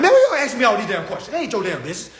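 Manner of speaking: mock aggravated elder; imitating annoyed elder. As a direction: brush off the nosy kid. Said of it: "They gonna be like".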